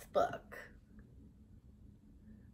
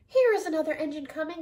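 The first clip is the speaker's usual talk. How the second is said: clown calling out; 5 semitones higher, 6 dB louder, much faster than usual. A narrator's reading. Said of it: "called out the little clown".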